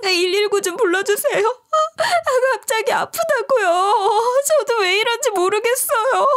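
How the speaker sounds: retold crying plea; tearful plea. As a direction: sob out a plea for an ambulance. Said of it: "울면서 하소연을 하기 시작했어요".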